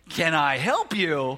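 can I, really?; incredulous. Retold or imitated. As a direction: stretch it out in happy disbelief. Incredulous at the easy request.

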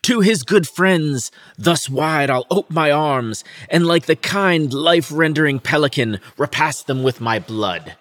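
a lightly overplayed tragic hero; melodramatic Laertes. Reading Laertes's vow to his father's friends, hammed-up. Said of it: "He's so fucking melodramatic".

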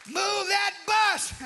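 high, slow, loud chant of the show line; cheering at the TV reveal; retold TV cheer. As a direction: belt it like a fan on the couch. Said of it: "we scream".

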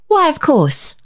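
breathy high whisper of courage; dauntless, hushed. A narrator's reading. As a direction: whisper it bravely. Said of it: "she said dauntlessly".

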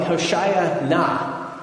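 "Hoshaya na" spaced out slowly, NA set apart; Hebrew pronunciation. Shown as a demonstration. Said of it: "It sounded more like".

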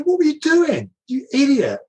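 mock yell. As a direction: shout it out, half laughing. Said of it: "and I said".

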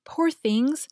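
a hint of a young girl's pity for the sheep; little girl's tender cry for the animals; little girl exclaiming. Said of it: "exclaimed one of the two little maids".

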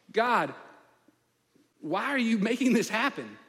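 anguished plea, building from pleading to a loud, high cry at God; Moses' lament. Acted. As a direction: pour out his frustration to God until it breaks into shouting. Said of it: "when Moses cries out to the Lord... it is a lament".

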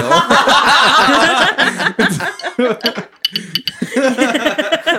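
loud high cackling laugh. Real, not acted. Cohosts cracking up at the edit joke, laughing hard. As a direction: burst out laughing.

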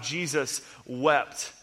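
slow, soft and reverent; hushed reverence. Real, not acted. Preacher reading the shortest verse, slow and hushed. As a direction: let the verse land quietly.

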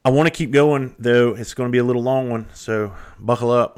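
eager hype for a long episode; excited. Real, not acted. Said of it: "I'm kind of excited about that".

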